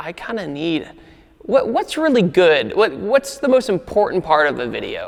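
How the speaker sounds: usual speaking voice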